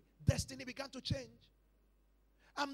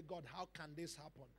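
subdued prayer; 7 semitones lower, 11 dB quieter than usual. Retold or imitated. Retold crying prayer, hushed.

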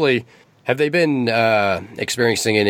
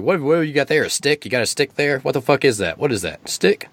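high, scornful taunt about the stick; mocking snake; 6 semitones higher than usual. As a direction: jeer at the wand, pitch climbing. Snake mocks the wand.

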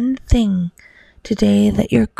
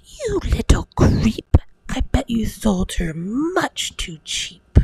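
mother scolding; 4 semitones higher than usual. Acted. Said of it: "the mother said".

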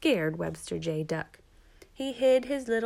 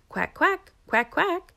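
high, loud duckling quacks; duckling calling; 11 semitones higher, 5 dB louder than usual. A narrator's reading. Baby duck calls for his mother, calling quacks. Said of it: "calling his mother".

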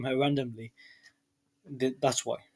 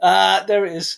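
triumphant; 4 semitones higher, 7 dB louder, slower than usual. Real, not acted. Catches her swearing, triumphant.

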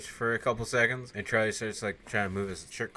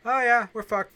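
high loud panicked squeal; doomed panic; 13 semitones higher, 8 dB louder than usual. Retold or imitated. Vincent seeing the vampire bat fly off, panicked squeal. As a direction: squeal it in mock dread.

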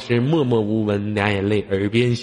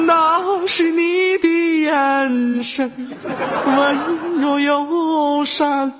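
laughing; 4 dB louder, much slower than usual. Real, not acted. Teasing, laughing mock praise.

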